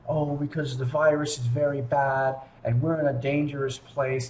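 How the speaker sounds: a hint of the friend's voice; quoting Amelie. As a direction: relay her answer in a lightly put-on voice.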